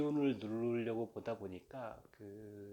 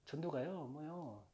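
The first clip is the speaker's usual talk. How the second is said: Gwangju dialect; 4 semitones higher, 5 dB quieter, slower than usual. Retold or imitated. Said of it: "광주 이쪽은".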